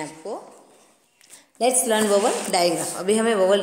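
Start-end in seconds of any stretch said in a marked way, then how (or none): 1.6-2.9 slow reading aloud. Shown as a demonstration. Reads English heading slowly.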